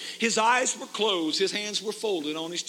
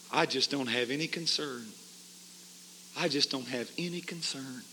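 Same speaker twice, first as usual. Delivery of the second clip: quiet, lower and soft, drained of feeling; hushed dying man; 6 semitones lower, 7 dB quieter than usual. Retold or imitated. Preacher voicing the dying man's soft hopeless words. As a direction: let it fade out, hopeless and spent.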